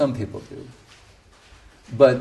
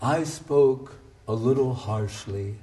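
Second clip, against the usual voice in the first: cute imitation of the guru; 5 dB louder than usual. Retelling how the guru answered the committee, a fond imitation. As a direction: mimic the guru's gentle tone, then blurt the last line loud. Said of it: "it was so cute the way he goes".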